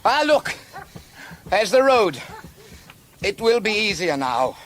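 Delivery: high, loud exclamation; excited relief. Acted. Rider sighting the road at last, excited. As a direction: call it out on spotting the goal.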